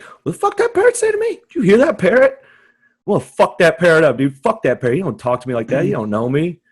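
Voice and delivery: hammed-up outrage, voice shooting up; mock outraged yelling. Picturing himself yelling at a zoo parrot, mock fury. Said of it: "and I'd be like".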